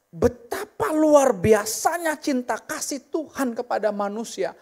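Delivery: ordinary talk, nothing marked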